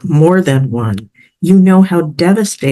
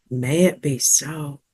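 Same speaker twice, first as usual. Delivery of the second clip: soft affirmation; 3 semitones lower, 8 dB quieter than usual. Acted. Soft affirmation after breathing out.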